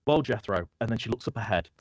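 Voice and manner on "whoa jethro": higher, louder whoa to the horse; calling to horse. Acted. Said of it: "she goes".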